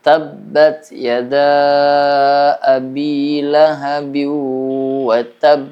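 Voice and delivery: slow recitation, tab ending in a strong bounce; qalqalah kubro. Shown as a demonstration. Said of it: "Itu namanya qalqalah kubro". (bacaan pelan dengan pantulan kuat di akhir tab)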